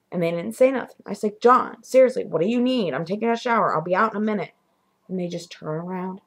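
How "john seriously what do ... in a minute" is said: raised, impatient call; mild exasperation. Retold or imitated. Calling to John from the shower, mildly exasperated. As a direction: call out, a touch annoyed.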